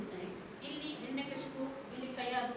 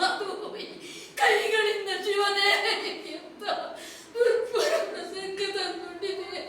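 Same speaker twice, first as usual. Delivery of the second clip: sobbing lament. Acted. Mother laments poisoning her son.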